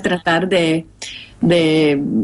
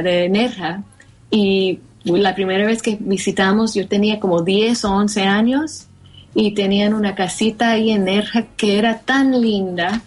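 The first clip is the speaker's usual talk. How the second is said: American accent Spanish. Real, not acted. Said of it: "mi español está tan malo".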